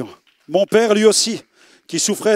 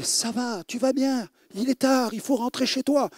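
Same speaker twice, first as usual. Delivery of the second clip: gentle pastor; 4 semitones higher, 7 dB quieter than usual. Retold or imitated. Pastor voice, soft and higher.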